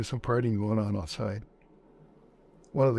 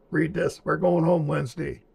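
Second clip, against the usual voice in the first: higher, louder triumphant announcement; excited; 6 semitones higher, 5 dB louder than usual. Retold or imitated. Steve shows the orders to his buddy, excited and loud. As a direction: shout it waving the orders.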